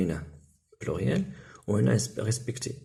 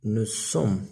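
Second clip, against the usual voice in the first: slow model answer. Shown as a demonstration. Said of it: "إذا نقولو".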